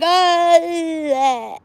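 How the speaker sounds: high, drawn-out mock "Oh"; hammed-up startled cry; imitated exclamation. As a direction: replay the surprised "Oh" from her head. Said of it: "That's how it sounded in my head".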